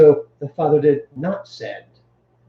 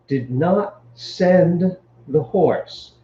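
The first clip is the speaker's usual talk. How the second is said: slowed right down with "send" leaned on; stress on send; much slower than usual. Shown as a demonstration. Teacher translating the first word order for students, stressing send. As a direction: let "send" carry the weight, slowly. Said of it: "the emphasis is on send".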